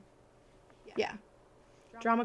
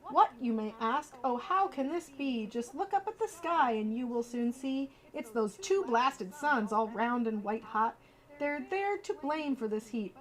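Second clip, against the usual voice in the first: lively storybook read-aloud; reading to children; 3 dB quieter than usual. Acted. Streamer reading a bedtime book to viewers, lively storybook voice.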